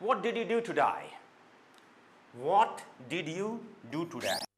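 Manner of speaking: "what" stretched very slowly, lips rounded on W; slow it right down, round the lips on "what". Shown as a demonstration. Teacher asks Angela slowly, lips rounded on what. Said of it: "what में देखिए".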